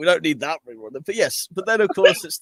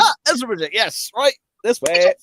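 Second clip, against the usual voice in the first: mock butler; 8 semitones higher, 4 dB louder than usual. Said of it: "I was like".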